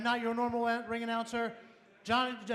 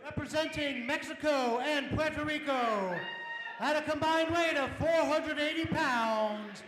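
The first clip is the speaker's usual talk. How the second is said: boxing ring announcer. Acted. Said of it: "I am the ring announcer tonight".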